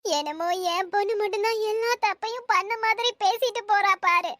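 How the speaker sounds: upset, tearful complaint. Acted. Mother answering neighbour who says don't cry, tearful. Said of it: "அழாதக்கா".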